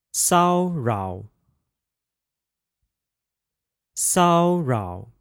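骚扰 with first tone then fourth tone; practicing tones. Shown as a demonstration. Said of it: "The first tone, fourth tone pair".

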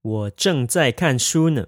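slow and clear model sentence; slow practice repeat. Shown as a demonstration. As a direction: say it slowly for learners to copy. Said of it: "You would say".

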